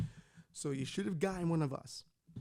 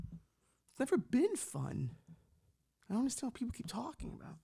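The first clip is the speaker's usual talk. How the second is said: mock whisper; 7 semitones higher than usual. Complaining about being from Bushwick.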